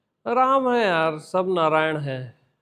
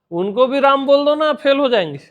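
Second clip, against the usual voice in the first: higher and louder, laughing at the end; laughing boast; 6 semitones higher, 4 dB louder than usual. Real, not acted. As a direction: tease with a laugh.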